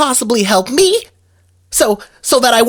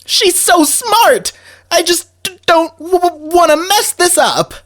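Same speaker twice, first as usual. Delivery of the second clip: nervous stammer; 6 semitones higher than usual. Acted. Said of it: "darn nervous!".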